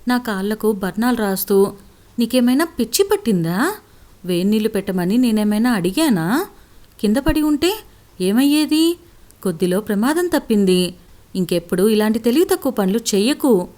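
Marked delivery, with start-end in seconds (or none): 2.2-13.7 angry shouting. Acted. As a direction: scold her hard, fear turning into anger. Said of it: "అంటూ గట్టిగా అరిచారు".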